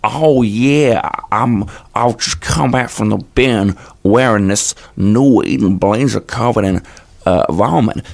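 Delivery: loud, slow put-on mongrel accent; an accent from Los Angeles via Italy via a bin; old put-on accent. Shown as a demonstration. Asked by the host to revive his old voice, in that odd accent. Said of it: "can you still do your old voice".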